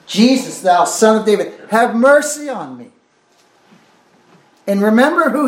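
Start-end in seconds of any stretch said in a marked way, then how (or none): 0.1-2.9 blind man calling to Jesus, raised voice in a mild cry; retold plea, pitched up at the end. Preacher retells blind man's cry to Jesus, calling out. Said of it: "So he's crying out".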